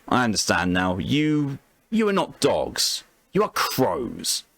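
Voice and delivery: lightly voiced captive, slow and halting; prisoner's grim realisation. Prisoner telling captors what they are, slow grim realisation. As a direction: let the realisation land slowly, with pauses.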